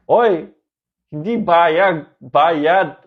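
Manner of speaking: a friend's loud retold shout; mock friend calling out. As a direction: call it out across the jeepney to correct him. Friend correcting him on the jeepney.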